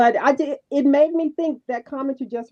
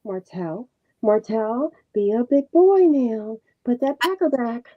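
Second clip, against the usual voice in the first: soft mom voice; slower than usual. Retold or imitated. Imitating Melody coaxing her baby softly. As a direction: coax a little one gently, a hint of mother. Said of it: "it works for Sugar Mama".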